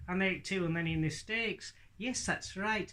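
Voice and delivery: high northern lad puppet voice; Hadley. Acted. Puppet querying the ventriloquist, lightly voiced northern lad. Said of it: "he speaks with a northern accent".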